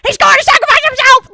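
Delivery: loud, high, raspy movie-quote shout; hammed-up hoarse old-man holler; raspy old smoker yell. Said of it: "they just yell".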